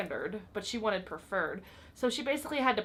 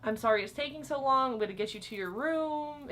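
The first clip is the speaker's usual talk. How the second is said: higher, bright customer-service apology; forced cheerful; 4 semitones higher than usual. Retold or imitated. Clerk apologizing to impatient guest with higher forced cheer. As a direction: put on a happy clerk voice to calm her. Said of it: "try to be as happy as I could".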